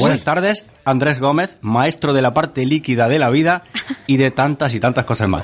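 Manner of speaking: rising announcer's build-up; grand entrance announcement. Pretend. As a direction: introduce a star guest with flair. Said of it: "una presentación estelar".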